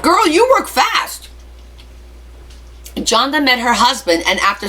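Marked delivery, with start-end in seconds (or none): 0.0-1.3 playful tease. Real, not acted. Teasing a viewer who married fast.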